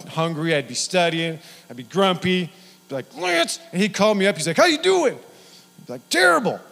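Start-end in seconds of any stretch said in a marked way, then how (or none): 3.2-3.6 much higher, drawn-out name; grumpy greeting. Retold or imitated. Hungry student picking up Lance's call, grumpy. 4.6-5.1 much higher and louder, bright greeting; cheery friend. Retold or imitated. Lance phoning his hungry friend, cheery. 6.1-6.6 much higher, louder, whiny; mock misery. Hungry student answering Lance, whiny.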